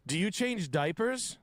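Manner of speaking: put-on high, slow drunk questioning; mock a nosy drunk, drawn out; drunk woman. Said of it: "a drunk carny".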